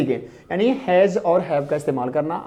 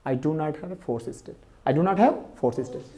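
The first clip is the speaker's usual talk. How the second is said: slow, softer, deliberate repetition; slow repeated dictation; 2 semitones lower, 7 dB quieter, much slower than usual. Shown as a demonstration. Teacher repeating the sentence for students, slow and soft. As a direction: repeat it slowly for the class to copy. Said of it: "क्या होगा".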